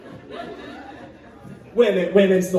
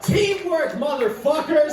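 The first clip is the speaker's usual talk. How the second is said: triumphant cheer; 6 semitones higher than usual. Real, not acted. Cheering the audience.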